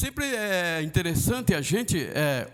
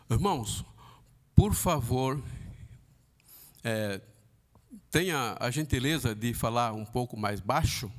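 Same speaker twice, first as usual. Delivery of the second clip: polite request; 5 semitones lower than usual. Shown as a demonstration. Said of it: "Eu fui educado".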